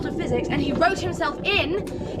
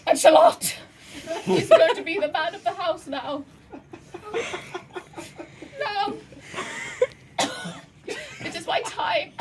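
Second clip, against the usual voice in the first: wounded soldier gasping. Acted. Dying farewell speech continues.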